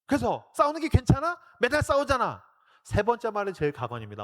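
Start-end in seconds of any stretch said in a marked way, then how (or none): 0.1-2.4 put-on high, louder kid's protest; child protesting. Youngest daughter talking back to her mother, higher and louder. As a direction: argue back like a stubborn little girl.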